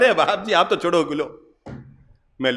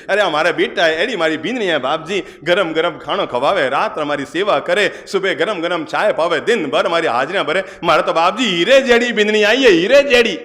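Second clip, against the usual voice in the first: put-on raised, glowing voice of a contented old woman; happy old mother; 3 semitones higher, 3 dB louder than usual. Old mother telling the monk she is in heaven, raised and glowing. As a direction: beam with pride as the old mother.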